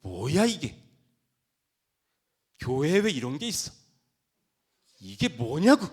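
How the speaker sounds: loud, indignant outburst; mock-outraged exclamations with long pauses; acted displeasure. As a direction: demand an answer, scandalized. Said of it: "표정이 안 좋아서 불쾌해서".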